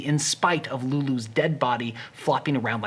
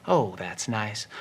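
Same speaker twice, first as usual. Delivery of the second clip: slower and softer still, lost in it; deeper contentment; 5 semitones lower, 5 dB quieter, slower than usual. Acted. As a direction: linger on it even more. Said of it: "he stroked harder".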